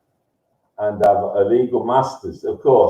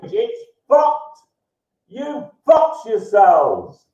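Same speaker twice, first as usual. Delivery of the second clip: high-pitched, drawn-out crowing; exultant, high ranting with stretched words; triumphant rant; 10 semitones higher than usual. Real, not acted. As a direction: crow over beaten opponents, pitch way up. Gleeful rant at online opponents.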